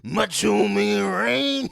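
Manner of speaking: loud, very slow mock twang; Appalachian accent. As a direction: drag it out like a wrestler. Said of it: "that's an Appalachian accent".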